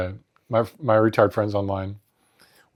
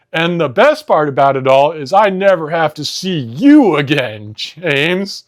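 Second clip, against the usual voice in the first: proud taunt; 5 semitones higher, 4 dB louder, slower than usual. Retold or imitated. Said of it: "he so proudly and happily declared".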